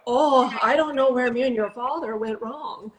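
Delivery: lightly imitated Minnesota mom, lamenting; mock-dismayed mother with a Minnesota lilt; Minnesota accent. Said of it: "Minnesota accent".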